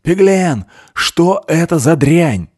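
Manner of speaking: high, loud, slow furious shout; shouting at a sobbing man; angry yell. Acted. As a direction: roar at him. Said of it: "заорал Андрей".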